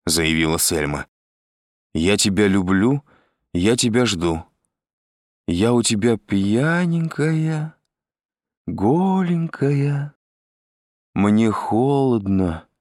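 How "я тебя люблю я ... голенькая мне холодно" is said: tipsy coaxing, sliding up high and slow; drunk Selma. A narrator's reading. Selma begs busy Andrei to come, drunken wheedling. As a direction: draw out the pet words like a drunk lover. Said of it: "совершенно пьяный голос Сельмы".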